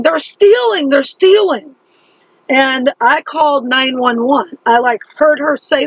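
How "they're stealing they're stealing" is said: higher, raised retold cry; mild mock scream. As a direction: imitate her screaming lightly.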